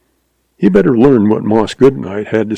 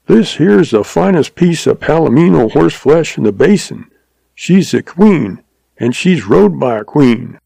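put-on old stableman; 5 semitones higher than usual.

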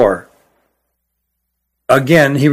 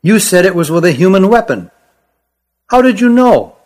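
higher, lighter voice for the small Kirin; small creature voice; 5 semitones higher than usual. Acted. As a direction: voice the little Kirin up high.

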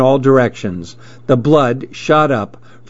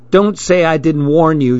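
mild shout; 4 semitones higher than usual. Acted. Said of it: "she shouted to Pete".

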